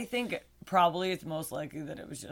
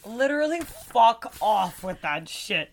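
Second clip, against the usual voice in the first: incredulous; 4 semitones higher, 5 dB louder, slower than usual. Real, not acted. Scoffing at pterodactyl theory.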